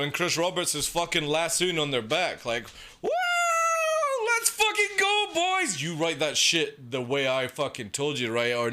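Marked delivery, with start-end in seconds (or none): 3.0-5.8 cheering a crowd of fans, mocking hype. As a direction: hype it up like a sellout streamer. Mocking hyped streamer cheer.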